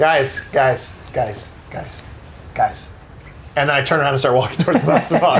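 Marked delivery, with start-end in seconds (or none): 0.0-2.9 low, dropping to near whisper; fading call. Acted. Player calling to the party, fading low and quiet. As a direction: call the others, each time softer and lower.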